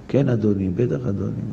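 gentle polite reply; polite sir. Shown as a demonstration. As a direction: answer everyone with deference. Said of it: "כל מי שאתה פוגש אותו".

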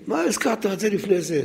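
mildly indignant, high-pitched correction; mock exasperation, pitched well up; imitated irritation. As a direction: retell an annoyed scholar's objection, voice rising without shouting. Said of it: "הוא היה מתעצבן".

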